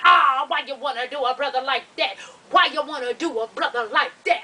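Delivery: lightly mimicked plea; man's pleading act. He pleads as she picks up phone, lightly mimicked. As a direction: imitate him pleading, repeating the phrase. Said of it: "So he's doing this shit".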